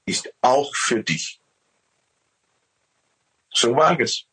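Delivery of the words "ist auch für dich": lightly raised, loving voice of God. Retold or imitated. God telling man he gives all, lightly raised voice. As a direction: speak as God offering everything. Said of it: "Er sagt".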